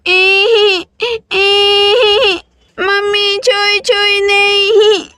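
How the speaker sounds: put-on high, drawn-out childish protest; a little boy fighting his mother's lullaby; whiny toddler. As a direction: whine like a toddler who refuses to sleep.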